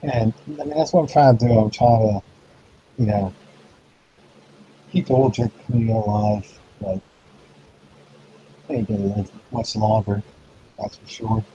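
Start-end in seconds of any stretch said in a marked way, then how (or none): 4.9-11.4 muffled, far from the mic; muffled as if underwater. Real, not acted. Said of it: "it sounds like you're underwater".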